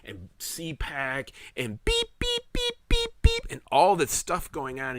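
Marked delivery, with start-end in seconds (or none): 2.2-3.5 high-pitched imitation of machine beeps; monitor beeps. Recalling the ICU room, imitating the monitors beeping. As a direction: mimic the ICU monitor going beep beep.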